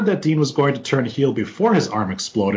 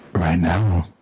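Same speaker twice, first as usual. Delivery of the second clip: ASMR voice; 7 semitones lower, slower than usual. Pretend. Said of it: "I'm gonna get aroused if you keep talking like that".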